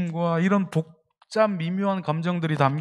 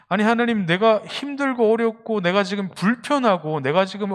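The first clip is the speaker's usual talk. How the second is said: pleading complaint prayer; 4 semitones higher than usual. Retold or imitated. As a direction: cry out why he has been left alone. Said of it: "라는 기도를 여러분들 하나님께 올려드린".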